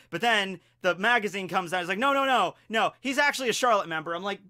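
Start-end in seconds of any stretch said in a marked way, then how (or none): 2.0-4.1 emphatic correction. Retold or imitated. Retelling the magazine correction.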